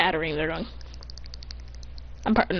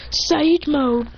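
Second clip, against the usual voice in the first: mild, higher technique call; 5 semitones higher than usual. Acted. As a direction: call out the power-up, lightly acted. Voicing technique being called out.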